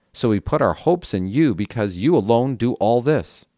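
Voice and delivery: earnest Bible passage reading voice; scripture reading. Acted. Reader to listeners, reading Jeremiah aloud as scripture. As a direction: read the prophet's lament aloud for listeners.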